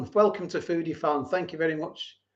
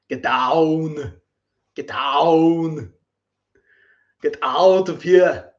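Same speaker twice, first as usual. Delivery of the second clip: firm, rising to a louder "get out of here"; ordering a pet off, getting sterner; shooing off; 4 dB louder, much slower than usual. Real, not acted. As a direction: shoo them away, firm then firmer. Shooing someone off camera.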